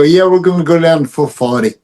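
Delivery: imitating a friend's Boston accent. Teller mimics his friend from the Boston area, in a Boston accent. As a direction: drop the R like a Bostonian. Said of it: "from the Boston area".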